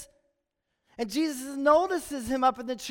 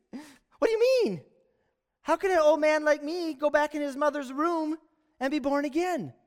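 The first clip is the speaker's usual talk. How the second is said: incredulous question, pitched up at the start; sarcastic disbelief; 2 semitones higher than usual. Acted. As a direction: play it sarcastic for laughs. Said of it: "Sarcastic, funny, humor".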